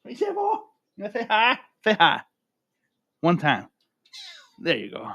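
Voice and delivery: very high, cooing voice for the cat; pet talk to a cat. Real, not acted. Talking sweetly to his cat.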